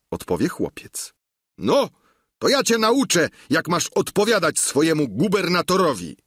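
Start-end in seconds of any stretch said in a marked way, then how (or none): 1.6-6.2 high, louder angry outburst; angry Sancho. Acted. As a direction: scold the cheeky boy sharply. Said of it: "rzecze rozgniewany Sancho". (gniewny, podniesiony głos)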